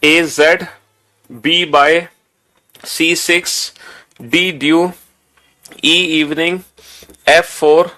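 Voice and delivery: firm, evenly spaced drill recitation; teacher modelling read-aloud memorizing; recite out loud. Shown as a demonstration. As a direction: read the list aloud item by item, pausing between each. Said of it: "जोर जोर से बोल के पढ़ोगे".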